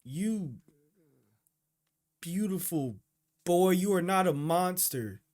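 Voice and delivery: high, loud, choked-up cry to the screen; emotional outburst. Real, not acted. Viewer crying out to Gugu on screen, overwhelmed and emotional. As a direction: pour out love for the character, voice breaking. Reacting tearfully to anime scene.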